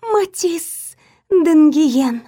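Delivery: slow, high hissing serpent voice; devoted report. A narrator's reading. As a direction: proudly report like a loyal serpent. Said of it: "преданно отрапортовал Вейр". (преданный доклад змеи)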